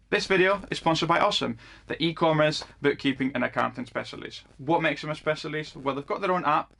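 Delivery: brisk, presenterly sponsor pitch; sponsor ad read. Acted. Vlogger reads a sponsor message to his viewers, ad read. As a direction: sell the service to viewers like an ad.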